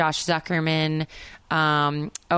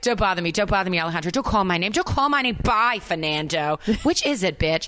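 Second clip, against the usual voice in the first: dramatic Jersey reading; 3 semitones higher than usual. Acted. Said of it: "cheesy big bad".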